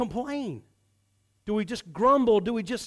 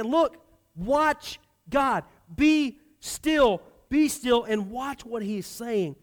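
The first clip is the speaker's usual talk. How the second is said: frustrated Moses; 3 semitones higher, 3 dB louder, much slower than usual. Retold or imitated. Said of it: "hear a little bit of frustration".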